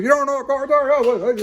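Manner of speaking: very high, loud mock disbelief; Bill Clinton, tire seller. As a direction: imitate an old man loudly astonished at the question. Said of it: "He goes".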